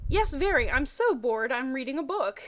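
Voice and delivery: reading the Pokemon fanfic dialogue with energy; voiced characters. Reading Brock and Misty's phone call in lively voices.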